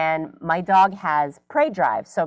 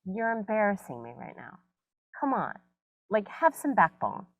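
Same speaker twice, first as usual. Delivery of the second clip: embarrassed owner; 2 semitones higher, 8 dB quieter than usual. Retold or imitated. Scolding her cowardly dog.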